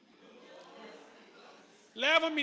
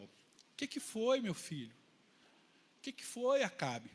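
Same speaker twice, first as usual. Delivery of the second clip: doting mother Jezabel; 6 dB quieter than usual. Retold or imitated. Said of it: "a mamãezona, a Jezabel".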